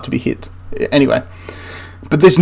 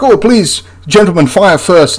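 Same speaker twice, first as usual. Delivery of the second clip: lightly acted courteous officer, starting higher; mock-polite officers; 4 semitones higher, slower than usual. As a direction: offer it with mock courtesy, drawing out the end. Voices officers goading the French.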